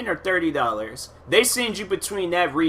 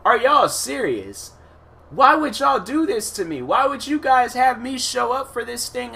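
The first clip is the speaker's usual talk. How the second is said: retold indignation; 10 semitones higher than usual. Retold complaint to court staff.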